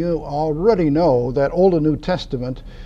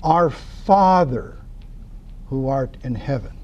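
reverent prayer. Retold or imitated. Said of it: "When you pray, say".

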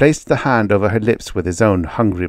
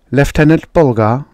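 stern judge; 7 semitones higher, 6 dB louder than usual. Acted. Judge calling the accused.

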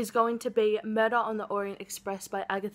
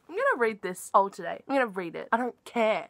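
fast, louder, decided; defiant; 5 dB louder, faster than usual. Real, not acted. Announcing the reading binge, defiantly. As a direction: declare it with no regrets.

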